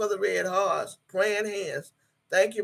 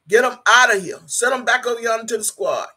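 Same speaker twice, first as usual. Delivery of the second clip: louder, fed-up call to kick them out; loud dismissal; 3 semitones higher, 6 dB louder, faster than usual. Real, not acted. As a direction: bark it so the chat hears. Blocking trolls in live chat.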